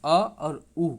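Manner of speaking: अ and उ given as two separate sounds; vowel breakdown. Shown as a demonstration. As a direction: set अ apart from उ, each vowel distinct. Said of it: "इस तरह से होता है".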